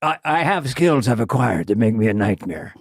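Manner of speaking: low, measured movie-avenger impression; matter-of-fact threat. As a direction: imitate an action hero calmly threatening, pitch sinking. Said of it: "It's so matter of fact".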